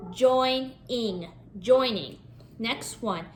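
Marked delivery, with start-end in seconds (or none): 0.1-2.2 Join, then ing, then blended joining; blending syllables. Shown as a demonstration. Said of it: "add ing".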